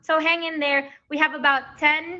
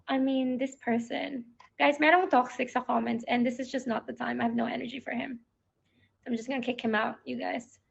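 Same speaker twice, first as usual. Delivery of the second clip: muttered aside; 6 dB quieter than usual. Real, not acted. Quietly dealing with a troll.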